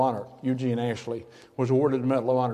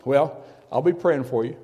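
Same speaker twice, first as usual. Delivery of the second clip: teasing aside. Acted. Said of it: "Christian people sometimes have a little trouble".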